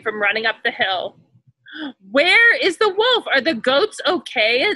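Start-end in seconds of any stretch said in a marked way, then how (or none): 2.1-4.7 panicked villagers arriving; gasping villagers. A narrator's reading. Villagers rushing in, breathless and alarmed. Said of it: "the villagers gasped".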